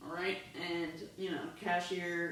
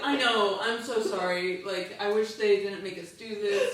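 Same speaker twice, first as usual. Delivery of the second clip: apologetic cashier; 7 dB louder than usual. Acted. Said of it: "She's like".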